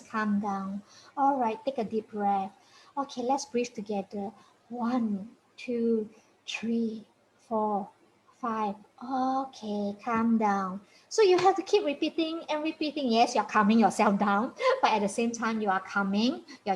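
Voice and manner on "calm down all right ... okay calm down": calm instructions. Shown as a demonstration. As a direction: lead the child through breaths gently. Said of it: "Give instructions".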